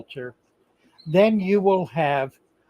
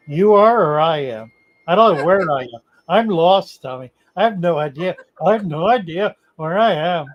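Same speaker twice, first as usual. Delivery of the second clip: lost tourist; 5 dB louder than usual. Acted. Acted lost traveler, loud.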